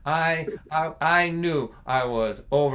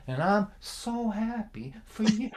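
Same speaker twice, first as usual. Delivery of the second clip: laughing through quote; 7 semitones higher, 4 dB quieter, slower than usual. Retold or imitated. Dad's guilt trip, teller laughing.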